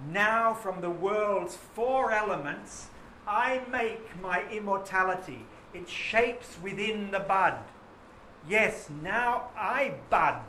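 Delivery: slow, expressive poetry reading. Shown as a demonstration. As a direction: savour each line of the poem. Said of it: "Listen again".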